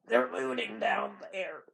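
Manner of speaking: high, slow dying Southerner; dying Southern man. Acted. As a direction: drag it out like an ailing Southerner. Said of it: "like a dying Southern man".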